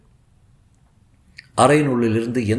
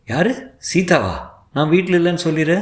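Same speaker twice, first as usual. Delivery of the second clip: quick, higher orders from behind a door; commanding; 6 semitones higher than usual. A narrator's reading. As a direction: snap out the command fast. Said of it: "என்று கட்டளை அறையிலிருந்து வந்தது".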